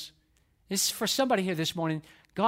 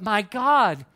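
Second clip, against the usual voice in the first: louder, preacher imitating a yell; retold cry from the cross; 3 semitones higher, 5 dB louder than usual. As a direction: call out like Jesus on the cross. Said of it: "he yells out from the cross".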